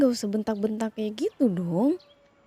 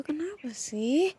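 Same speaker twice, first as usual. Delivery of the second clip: whisper; 3 semitones higher, much slower than usual. Acted. Mother hushing arguing kids.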